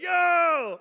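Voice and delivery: sharp high shout of surprise; calling out. Retold or imitated. Teen calling out at a schoolyard fight, loud shout. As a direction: yell it out at the fight.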